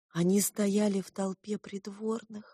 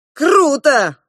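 put-on boyish exclaim; 9 semitones higher, 13 dB louder than usual. A narrator's reading. Young prince exclaims.

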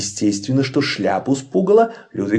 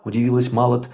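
plain reading voice

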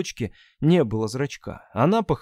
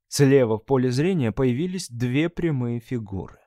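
usual speaking voice

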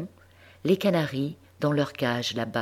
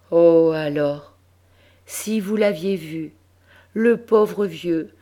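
excited; 6 semitones higher, 6 dB louder than usual. A narrator's reading. Emotional recollection, voice raised.

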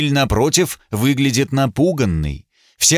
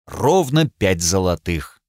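slow, lower, regretful count; saddened; 3 semitones lower than usual. Acted. Judge sadly counting the coins. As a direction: say it heavily, with regret. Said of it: "сказал он опечаленно".

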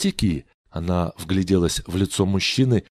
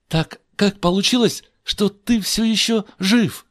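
Esther asking; 11 semitones higher, 3 dB louder than usual. A narrator's reading. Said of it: "поинтересовалась Эсфирь".

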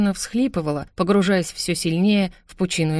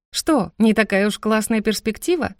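higher, lightly needling question; teasing jab; 4 semitones higher than usual. Acted. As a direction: poke fun at him. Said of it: "поддела я его".

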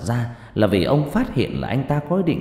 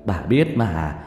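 pleading defense; 4 semitones higher than usual. Acted. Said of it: "phân trần".

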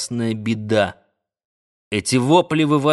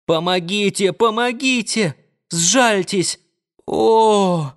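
high, desperate pleading ending in a cry; a beaten woman's failing cries for help; weakening cries; 7 semitones higher, slower than usual. A narrator's reading. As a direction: beg for mercy, voice giving out. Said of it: "слабеющий голос Риты".

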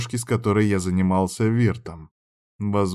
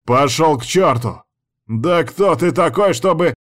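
loud, higher angry shout; angry yell; 6 semitones higher, 5 dB louder than usual. A narrator's reading. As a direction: bark at the intruder furiously. Angry servant yelling at rival. (злой крик слуги на соперника)

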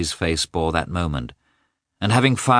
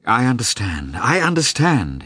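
soothing; 7 semitones higher, 4 dB louder than usual. A narrator's reading. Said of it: "trying to soothe her".

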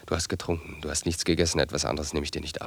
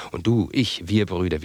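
impassioned outburst; 3 semitones higher, 8 dB louder, slower than usual. Acted. Brother's impassioned speech.

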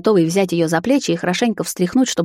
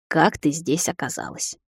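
slow, softer, pressing repeat; repeated question, quieter; 6 dB quieter than usual. A narrator's reading. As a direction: ask again slowly, losing patience. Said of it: "Поэтому спрошу ещё раз".

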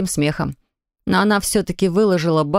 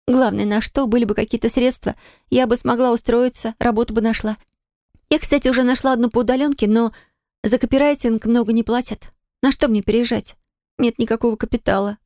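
put-on higher girl's voice, quick and anxious; young heroine worried; 5 semitones higher than usual. Polina telling grandma her worries, higher and anxious. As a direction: fret over having no money.

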